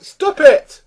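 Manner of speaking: loud, high, drawn-out exasperated plea. Real, not acted. Reviewer telling film makers off, exasperated. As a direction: demand it slowly, pitch and volume up.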